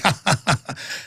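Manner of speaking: soft, low mocking chuckle; sardonic laugh. Real, not acted. Host scoffs at doctors' denial, sardonic chuckle. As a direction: chuckle at the doctors being caught out. Sarcastic retort about mercury.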